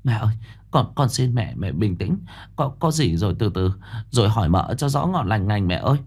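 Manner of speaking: pleading. Acted. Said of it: "giọng nói van lơn".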